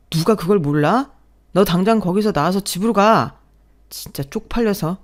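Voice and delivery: loud scolding voice on the phone; furious husband shouting at wife; angry husband. Acted. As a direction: bark orders down the line.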